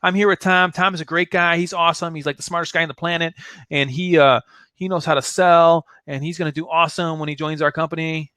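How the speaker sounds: eager, over-the-top introduction; gushing phone pitch. Shown as a demonstration. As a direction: gush about your friend on a call. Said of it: "let's say Tom is my prospect, okay, and I'm calling George".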